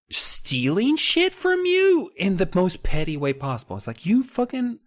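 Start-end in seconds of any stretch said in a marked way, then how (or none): 4.1-4.8 high-pitched, drawn-out comic outrage; mock exasperation. Subject griping at pilfering royalty, mock exasperated. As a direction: complain in an aggrieved high voice.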